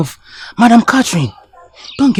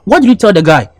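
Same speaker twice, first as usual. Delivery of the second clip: heated argument; 3 semitones higher, 5 dB louder than usual. Acted. Arguing about the other guy.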